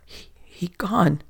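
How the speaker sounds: slow, whispered stammer; spluttering. Acted. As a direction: stammer the words out in shock. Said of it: "the swarthy man spluttered".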